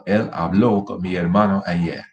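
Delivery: habló with the -BLÓ stressed; stress on final syllable. Shown as a demonstration. Teacher repeating past against present, final stress on habló. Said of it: "That's the difference".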